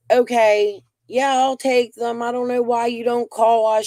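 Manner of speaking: high, sing-song mock of the other grandma. Mocking the other grandma's reply.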